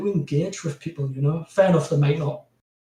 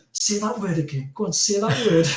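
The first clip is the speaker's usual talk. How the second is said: imitated callers' eager, higher-pitched coaxing; egging on; 5 semitones higher than usual. Callers asking him to keep speaking more, egging on. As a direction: coax as if goading someone to perform.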